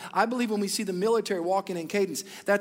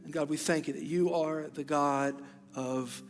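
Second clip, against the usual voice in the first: prayer; 2 semitones lower than usual. Acted. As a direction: pray over them gently and sincerely. Pastor prays over congregation.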